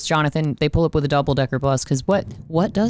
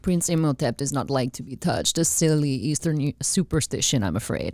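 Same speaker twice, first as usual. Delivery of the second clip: lightly acted, softer apologetic explanation; quoting movie character; 4 dB quieter than usual. Quoting Benny escorting Imhotep, lightly acted apology. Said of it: "and he's like".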